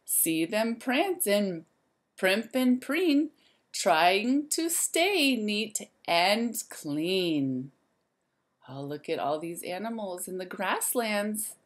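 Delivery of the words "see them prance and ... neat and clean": lively, sing-song storybook voice; reading to children. A narrator's reading. Teacher reading a rhyme book to the class, lively and sing-song. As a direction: wake the zoo up like a bright morning call.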